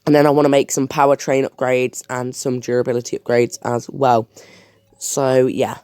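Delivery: talking around a lollipop; words slightly thick from a lollipop in mouth; sucking a lollipop. Real, not acted. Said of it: "I've got a lollipop".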